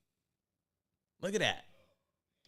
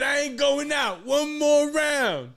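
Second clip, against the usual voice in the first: mock fighter shout; 9 semitones higher, 5 dB louder, slower than usual. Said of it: "He said".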